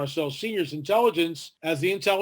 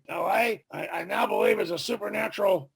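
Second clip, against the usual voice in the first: lightly voiced doctor, slightly higher; a hint of the old scientist, awed; half-hearted impersonation of the doctor; Roger Lear impression; 4 semitones higher than usual. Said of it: "That's my best Roger Lear impersonation".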